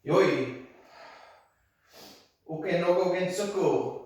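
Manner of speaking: sharp martial arts commands. Real, not acted. Counting out a kata.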